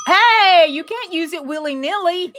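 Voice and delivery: high, bright imitation of a film line; quoted movie line. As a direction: do a playful impression of the quote. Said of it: "anybody recognize that?".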